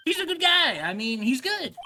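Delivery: high, loud insistence; pleading sidekick. Acted. Sidekick defending the client to Nick, high and insistent. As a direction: defend him with all you've got.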